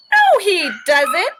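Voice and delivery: high, slow little critter voice; a tiny guinea pig disagreeing slowly; small high squeaky rodent, drawn out; guinea pig Moo. Acted. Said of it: "says Moo".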